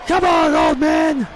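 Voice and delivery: lightly voiced taunting shout; mock trash talk at the rival; wrestler's taunt. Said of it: "got the nerve to call Finn Balor an old man".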